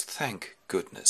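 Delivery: slow, soft relief; relieved man. Acted. Ulysses hears he is free, soft slow relief. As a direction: let it out softly and slowly. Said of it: "And he goes".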